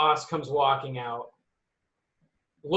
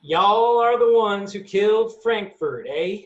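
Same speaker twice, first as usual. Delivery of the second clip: loud, slow, raised-pitch drawl; slow, higher-pitched boss character voice; demon boss voice; 5 semitones higher, 6 dB louder than usual. Acted. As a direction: draw it out as a demon boss confronting strangers. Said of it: "That's what she sounds like".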